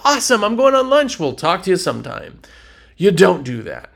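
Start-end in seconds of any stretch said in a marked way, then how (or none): 0.0-2.4 mock careless salesman. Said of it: "and you go".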